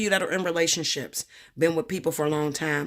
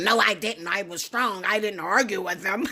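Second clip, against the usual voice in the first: defensive; 4 semitones higher than usual. Retold or imitated. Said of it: "And I'm defensive".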